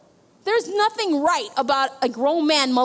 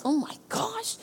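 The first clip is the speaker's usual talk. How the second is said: high, exasperated mock complaint; 6 semitones higher than usual. Pastor reliving her frustration after being vomited on, exasperated and high. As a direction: throw up your hands at having to serve. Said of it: "I'm just like".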